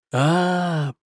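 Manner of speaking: long drawn-out realizing "А-а-а". Acted. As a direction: stretch the sound out slowly. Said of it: "протянул Хувей".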